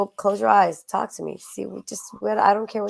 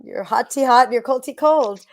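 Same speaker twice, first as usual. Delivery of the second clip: mock advert read; 3 semitones higher, 6 dB louder than usual. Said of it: "I'll do a little advert for".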